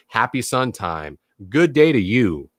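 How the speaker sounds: slow, drawn-out sunny greeting; cheery greeting. Shown as a demonstration. Speaker showing his own morning greeting, slow and cheery. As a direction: greet them like a bright announcer, unhurried. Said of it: "Just like I say".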